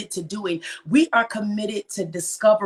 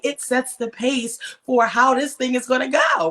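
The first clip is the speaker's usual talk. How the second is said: louder and higher, driving the point home; excited emphasis; 5 semitones higher, 3 dB louder than usual. Real, not acted. Host rallying her viewers, raised excited voice. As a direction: punch it out to the crowd. Hyping up her live audience.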